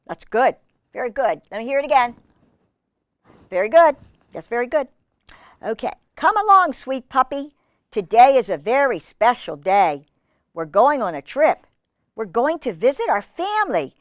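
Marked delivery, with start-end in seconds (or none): 6.2-13.9 measured, lilting storybook narration; reading to children. Acted. Reader telling children Biscuit's story, in a lilting read-aloud. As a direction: read it clearly to little listeners.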